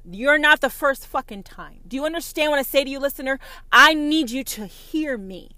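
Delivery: loud, high furious yelling at the listener; angry shout. Real, not acted. Prophetess yelling at doubting listeners, furious shout. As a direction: shout it down at them, raging.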